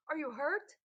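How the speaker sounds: worried yell. A narrator's reading. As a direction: shout with concern. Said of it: "Benjamin yelled over the splashing".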